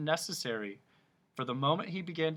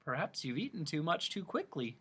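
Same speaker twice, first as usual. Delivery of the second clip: sympathetic Milo; 4 semitones higher, 5 dB quieter than usual. A narrator's reading. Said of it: "Milo remarked sympathetically".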